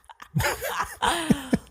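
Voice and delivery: sudden high burst of laughter. Real, not acted. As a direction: laugh at your own joke about losing listeners. Laughs at own joke.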